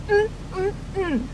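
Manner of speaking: high, excited little "mm" squeals; delighted hum. Real, not acted. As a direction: hum with glee. Celebrating the successful repair.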